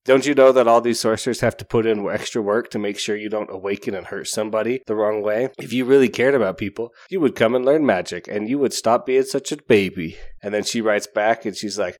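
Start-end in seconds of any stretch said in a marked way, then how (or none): 0.0-10.2 scolding note read in a lightly stern voice; a hint of a scolding Phantom; mock berating. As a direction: lecture her like a cross tutor. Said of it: "berating her".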